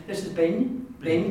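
bin with a slender n, like a hidden y after it; slender Irish n. Shown as a demonstration. Teacher showing learners the different N, slender Irish n. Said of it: "It's a different N".

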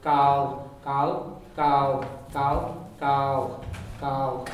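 gal with a thick L pressed hard against the teeth; Irish double L gal. Shown as a demonstration. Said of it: "hits the teeth very strongly".

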